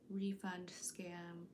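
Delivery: slow breathy whisper. Pretend. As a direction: whisper it slowly. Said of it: "imitating a scam call".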